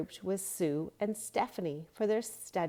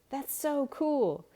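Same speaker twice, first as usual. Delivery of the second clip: loud, high, slow and amazed; excited boy; 8 semitones higher, 4 dB louder, slower than usual. A narrator's reading. Boy pointing out surfers to friends, loud and amazed. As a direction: point it out in wonder. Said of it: "asked Luke".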